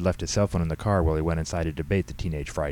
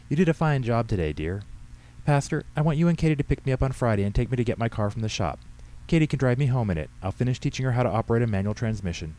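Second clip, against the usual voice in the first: put-on higher-pitched elderly woman giving orders; bossy old lady; 6 semitones higher than usual. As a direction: play the old lady taking charge. Voices Henrietta giving orders.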